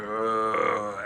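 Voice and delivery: mock zombie groan; zombie moan. Zombies answering their master with a moan. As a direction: moan it like the undead. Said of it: "they moan, they're like".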